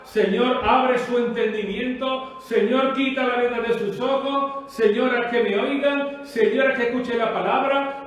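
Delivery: insistent, rhythmic intercession, rising on each "Señor"; pleading prayer. Acted. Preacher showing how to ask God pardon for others, pleading prayer. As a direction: plead to God in repeated appeals.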